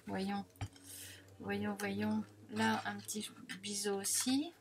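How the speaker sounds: quiet unvoiced murmur while working; whisper. Real, not acted. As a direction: whisper it to yourself, focused. Chuchote en découpant. (chuchoté en se concentrant)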